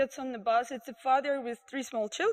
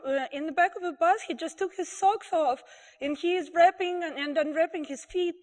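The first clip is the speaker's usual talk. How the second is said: mock outraged lady complaining to the driver; upset complaint; 4 semitones higher than usual. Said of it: "And she says".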